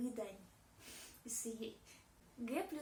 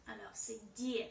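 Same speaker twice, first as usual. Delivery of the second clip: whispered demo. Shown as a demonstration. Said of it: "D devient plus douce".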